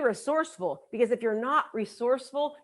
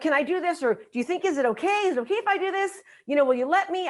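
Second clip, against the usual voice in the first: higher, halting mock pleading; asking permission; 5 semitones higher than usual. Shown as a demonstration. Attendee asking a spouse for the money, seeking permission. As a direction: beg for approval in tentative little questions. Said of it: "you're asking for permission".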